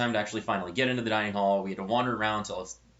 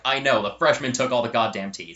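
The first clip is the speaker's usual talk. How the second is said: mock exasperation; 5 dB louder than usual. Friend's angry retort retold.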